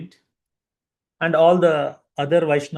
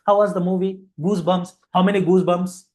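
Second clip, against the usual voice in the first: higher, lightly acted quizzing; eager movie questioner; 4 semitones higher, 4 dB louder than usual. Someone quizzing moviegoers outside a theatre, mock-eager questioning. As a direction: fire questions like an excited interviewer.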